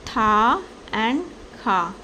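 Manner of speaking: Tha and kha as two separate drawn-out syllables; teacher splitting Tha and kha apart. Shown as a demonstration. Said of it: "What are those two syllables?".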